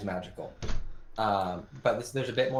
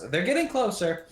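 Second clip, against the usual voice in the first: higher, drawn-out warning shout; shouted alarm; 9 semitones higher, 4 dB louder than usual. Acted. Game master voices Lori warning the party, shouting. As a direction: call out a warning as the character. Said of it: "just shouts".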